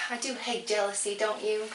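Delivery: lightly attempted New York accent. Guest walks up to Kimberly at the party, tentative New York accent. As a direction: try a slight New York voice. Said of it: "I'll attempt New York".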